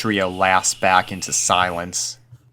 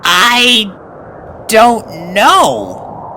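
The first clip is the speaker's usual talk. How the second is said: slow, unsure colt; 10 dB louder, much slower than usual. A narrator's reading. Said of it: "Snips said, slowly".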